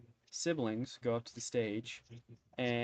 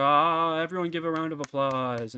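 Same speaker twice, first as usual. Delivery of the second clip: Lord Kirschwood; 3 semitones higher, 6 dB louder than usual. Acted. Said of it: "you hear Lord Kirschwood go".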